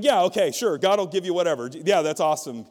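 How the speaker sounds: imitating a preacher humoring someone away; loud, offhand mock agreement to get rid of her; dismissive agreeing. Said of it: "just kind of agreeing with her so that she would leave".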